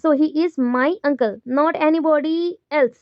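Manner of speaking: MY picked out, said slowly; slow and deliberate, leaning on "my"; stress on MY. Shown as a demonstration. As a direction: spell out the contrast on "my". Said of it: "वो सिर्फ मेरे uncle है".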